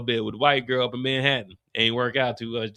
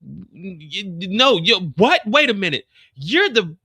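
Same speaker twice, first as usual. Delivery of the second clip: rising high outrage; 7 semitones higher than usual. Acted. The lady realises who Rock is, high and rising. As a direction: build to shrill confrontation. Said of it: "lady confronts Rock".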